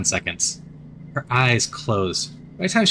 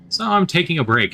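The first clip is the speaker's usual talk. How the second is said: sarcastic lift on the quoted words; mocking air quotes; 7 semitones higher than usual. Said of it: "mocking air quotes in the sentence".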